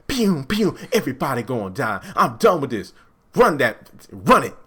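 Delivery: a hint of a small man playing tough gangster; fake gangster. Mocking Mike as Kevin Hart acting gangster, hammed-up tough talk. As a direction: puff up like a little guy acting hard. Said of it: "Kevin Hart trying to be gangster".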